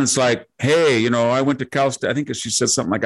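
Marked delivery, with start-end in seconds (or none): 0.6-2.1 imitating a Valley Girl accent, a bit higher. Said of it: "this Valley Girl accent".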